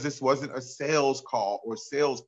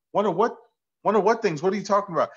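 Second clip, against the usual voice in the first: incredulous; 7 semitones higher, 4 dB louder, faster than usual. Retold or imitated. Retold phone call, incredulous.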